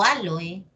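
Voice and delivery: Á-lo-e, stressed on the first syllable. Shown as a demonstration. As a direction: say aloe as ÁL-oe. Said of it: "es lo mismo".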